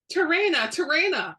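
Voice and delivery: loud, high call across the shop. Acted. Best friend calling through the shop, loud urgent call. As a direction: call her name urgently.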